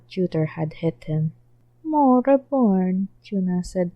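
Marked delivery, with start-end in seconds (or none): 1.8-3.1 pouting. Acted.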